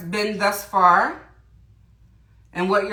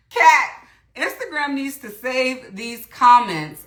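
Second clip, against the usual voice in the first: still laughing; 4 semitones higher than usual. Real, not acted. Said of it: "why I'm crying laughing over here".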